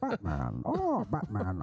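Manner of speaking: very low, drawn villain call; deep mock villain calling Batman. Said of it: "Batman, Batman".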